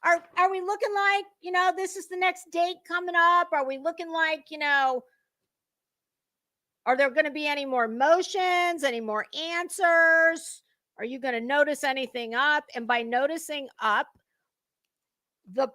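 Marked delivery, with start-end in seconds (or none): 0.0-10.6 higher, sing-song read of a dim opponent's letter; reading her letter aloud to viewers, mocking her high and silly; mocking Betty's letter.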